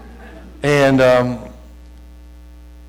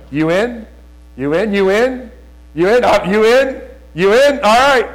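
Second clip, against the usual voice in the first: rising from raised voice to high, loud calls; building rallying challenge; 8 semitones higher, 4 dB louder, slower than usual. Acted. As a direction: press the question harder each time. Rallying the congregation, repeated challenge.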